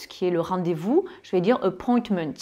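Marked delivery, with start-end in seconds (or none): 1.6-2.3 "appointments" ending in a sharp S; final S sound. Shown as a demonstration. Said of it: "Là, c'est le son S". (« appointments » avec le son S bien prononcé)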